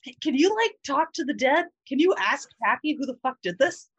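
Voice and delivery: high eager character voice. Acted. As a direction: pitch it up for the character. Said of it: "I've already lost the character voice".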